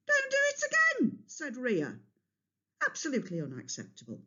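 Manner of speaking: very high quick warning, then a curt clipped verdict; stern warning. A narrator's reading. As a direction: lay down the law. Rhea scolds then stomps off.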